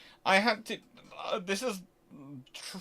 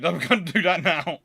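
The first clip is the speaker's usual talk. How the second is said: laughing; 6 dB louder than usual. Real, not acted. Laughs while retelling insistence.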